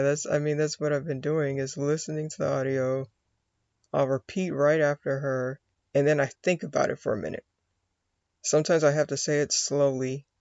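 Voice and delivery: ordinary talk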